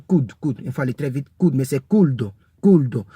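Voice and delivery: could said kud, quick, no L; silent L. Shown as a demonstration. Teacher showing learners could without its L. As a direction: clip could short with no L. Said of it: "on lit pas le L".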